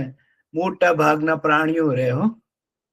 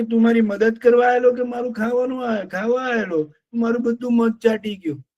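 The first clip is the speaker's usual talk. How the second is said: angry bear; 6 semitones higher than usual. Acted. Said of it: "ભોલું ભાલુ બહુ ગુસ્સે થાય છે".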